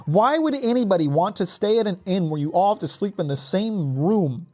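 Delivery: incredulous. Real, not acted. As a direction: question it in high-pitched disbelief. Incredulous rant at game's inn.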